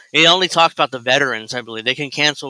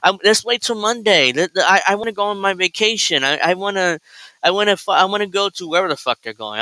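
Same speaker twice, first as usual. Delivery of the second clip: higher, whining and exasperated; fed-up wife voice; 5 semitones higher than usual. Retold or imitated. Wife refusing to make the video, higher whiny complaint. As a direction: whine like a wife who wants her vacation. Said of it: "She's like".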